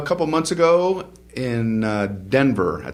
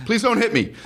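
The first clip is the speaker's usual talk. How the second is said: laughing; 9 semitones higher, faster than usual. Pretend. Mock plea, laughing.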